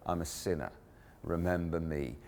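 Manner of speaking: gentle hush at the sermon's heart; hushed plea. Real, not acted. Quiet climax of sermon.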